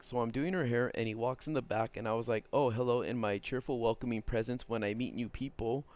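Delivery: run-on reading without stops; no punctuation. Shown as a demonstration. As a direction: read straight through every sentence break. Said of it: "there's no punctuation".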